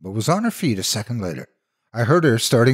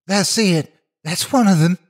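high, panicked cry of terror; a girl recognising the monster, screaming in terror; terrified scream; 10 semitones higher, 4 dB louder than usual. A narrator's reading. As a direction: shriek it in raw fear. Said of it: "She was practically screaming raw terror".

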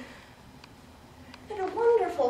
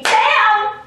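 sudden bam; 5 semitones higher, 7 dB louder than usual. Retold or imitated. Sudden realization in car.

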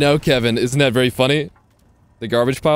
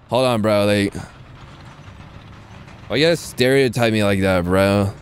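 lightly hammed-up Valley Girl accent, full of likes. Shown as a demonstration. Streamer obliges a chat request, mock Valley Girl accent. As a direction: play up a teasing Valley Girl accent, stumbling over filler words. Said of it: "do a Valley Girl accent if you really wanted me to".

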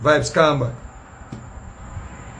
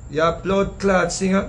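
mocking insult; slower than usual. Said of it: "The man say".

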